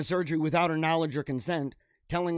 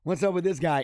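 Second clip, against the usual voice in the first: mock shock; 2 semitones higher than usual. Coworkers on the Zoom call, mock shocked and laughing. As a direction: gasp like a coworker catching it on camera. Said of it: "everybody's like".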